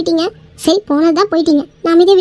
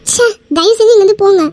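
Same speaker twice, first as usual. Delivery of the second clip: angry dismissal; 4 semitones higher, 3 dB louder than usual. Acted. Wife angrily sends husband away.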